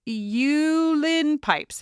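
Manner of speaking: slow, drawn-out attempt at an Irish accent. Reading a listener's email aloud, slow tentative Irish accent. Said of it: "I'm trying to do an Irish accent".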